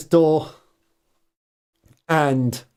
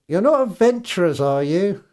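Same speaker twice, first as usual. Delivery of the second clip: suspicious housewife; 3 semitones higher than usual. Acted.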